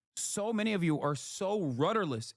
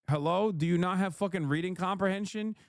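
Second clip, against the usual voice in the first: exasperated berating; 4 semitones higher than usual. Real, not acted. Berating chat.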